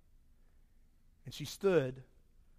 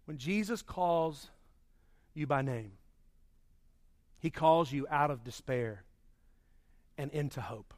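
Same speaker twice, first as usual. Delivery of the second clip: hushed sermon line; 7 semitones lower, 6 dB quieter than usual. Real, not acted.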